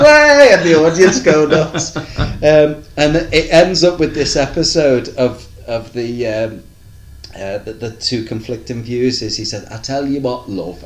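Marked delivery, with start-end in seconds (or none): 0.0-0.5 high, loud whoop of delight; excited shout. Retold or imitated. Narrator mimics the audience, a loud high whoop. 9.7-10.8 patronising. Retold or imitated. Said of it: "he's really patronising to it".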